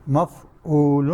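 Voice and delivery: مفعول stretched very slowly, each sound held; drawn out slowly. Shown as a demonstration. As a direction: spell مفعول out in slow motion for students. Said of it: "مفعول کے وزن پہ". (مفعول کو بہت آہستہ کھینچ کر)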